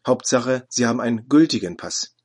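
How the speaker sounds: mildly firm official, "Hauptsache" set down squarely; a touch of a stern border officer; firm and decided. Retold or imitated. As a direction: correct him calmly but without give. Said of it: "fest und bestimmt".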